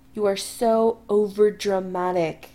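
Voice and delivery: put-on slow, heartfelt drunk chiding; with feeling. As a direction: lean on so with feeling. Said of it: "He says with feeling".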